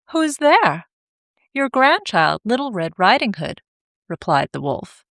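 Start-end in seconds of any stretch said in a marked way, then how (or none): 0.1-0.9 put-on high frail old woman; old grandmother voice. Grandmother calls from bed. 1.5-3.6 put-on wolf faking a girl's voice, high; disguised voice. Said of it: "changing his voice".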